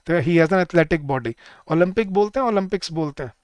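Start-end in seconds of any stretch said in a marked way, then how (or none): 0.2-1.3 slow correct form. Shown as a demonstration. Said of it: "it starts acting as an adjective".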